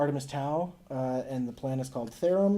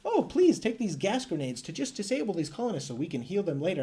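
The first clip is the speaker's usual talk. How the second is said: higher-pitched imitation of begging; mock pleading; 5 semitones higher than usual. Colonists asking player to spare the infected, mock pleading. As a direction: plead on behalf of the sick, hammed-up.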